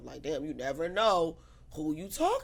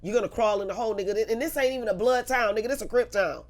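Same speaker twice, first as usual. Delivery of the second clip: loud, heated street threat; angry threat; 5 semitones higher, 8 dB louder than usual. Retold or imitated. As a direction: warn him off, loud and fierce. Threatening Jason on the phone.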